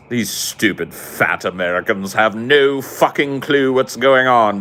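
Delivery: lightly put-on British sneer; slow, drawn-out mock British disdain. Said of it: "the thing about Brits that gets me".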